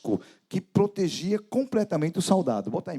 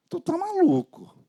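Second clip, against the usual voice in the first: incredulous retort; 12 semitones higher than usual. Retold or imitated. Jesus answering the devil.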